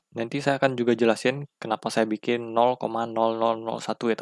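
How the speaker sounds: normal talking voice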